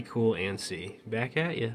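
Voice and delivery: a light Jamaican-ish twist on the catchphrase; mock Jamaican line. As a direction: toss off the slang in a Jamaican lilt. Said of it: "I said A".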